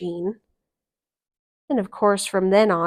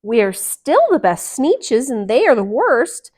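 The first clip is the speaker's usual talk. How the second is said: frowning; 5 semitones higher, 9 dB louder than usual. Acted. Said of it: "they all frowned".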